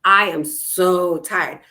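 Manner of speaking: slow, drawn-out weary complaint; slow tired sigh of a line. Shown as a demonstration. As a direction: play the drained negative version. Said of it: "Big difference to".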